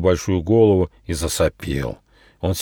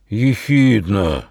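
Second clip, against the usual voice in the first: slow, drawn-out beetle drone; big beetle droning a guess; 3 semitones higher, much slower than usual. Acted. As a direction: hum the word out slowly. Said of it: "прогудел жук-носорог".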